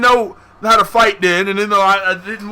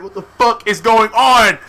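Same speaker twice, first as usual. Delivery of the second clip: slow, louder cry of confusion; bewildered mock yell; 3 semitones higher, 5 dB louder, slower than usual. Kid curled down in a ball, loud retold bewilderment. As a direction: stretch it out in exaggerated bewilderment.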